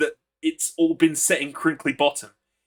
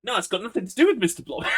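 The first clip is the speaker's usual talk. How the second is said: laughing shout; 5 semitones higher, faster than usual. Real, not acted. Shouting reply while laughing.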